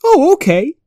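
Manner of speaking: high, eager little puppy voice. Acted. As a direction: pitch way up like a small pup. Howdy Pooch agrees.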